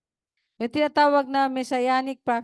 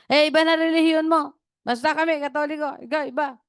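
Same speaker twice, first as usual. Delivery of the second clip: quoting grandmother; 6 semitones higher, 5 dB louder than usual. Retold or imitated. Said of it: "Sabi niya".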